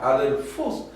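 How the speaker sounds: adelfos easing off on -fos. Shown as a demonstration. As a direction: drop the voice on the last syllable of adelfos. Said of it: "era como para bajar el tono de voz".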